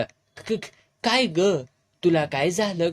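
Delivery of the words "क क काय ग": stammering in fright, breaking off on क-; frightened stammer. Acted. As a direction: get the words out through fear. (घाबरून अडखळत)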